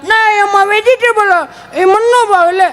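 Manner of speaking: put-on high, slow whiny child voice; child refusing food, high and whiny. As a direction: pout it out like a spoilt kid.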